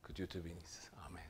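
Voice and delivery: soft unvoiced whisper; whispered blessing. Real, not acted. Preacher blessing a listener in a whisper. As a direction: breathe the blessing gently.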